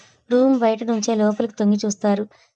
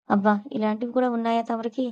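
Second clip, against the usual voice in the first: softer, mocking taunt; sarcastic; 4 dB quieter than usual. Srikar teasing Sweety about her sudden modesty, sarcastic. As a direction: needle her with mild sarcasm. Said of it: "అంటాడు వెటకారంగా".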